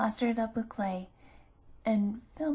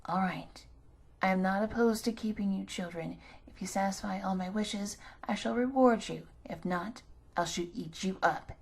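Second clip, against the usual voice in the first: threatening witch. Acted.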